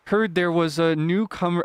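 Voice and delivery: slow, lightly voiced fisherman; tentative Willy voice. Fisherman greeting a newcomer, tentative slow attempt. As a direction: try out a slow, careful fisherman voice. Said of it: "he speaks slowly".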